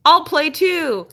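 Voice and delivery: put-on the dog imagined as a happy kid joining a game; playful dog voice. Owner voicing her dog as if it thinks choking is a game, playful puppy voice. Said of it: "She'd be like".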